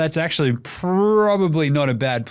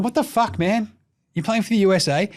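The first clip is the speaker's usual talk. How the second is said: high, lightly put-on indignant voice; a hint of a betrayed fan; mock outraged Cameroon; 8 semitones higher than usual. Podcaster voices Cameroon scolding Embiid, lightly mock outraged. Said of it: "Cameroon is sitting there going".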